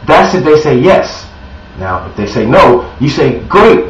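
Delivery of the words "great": excited great. Shown as a demonstration. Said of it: "sounds exciting".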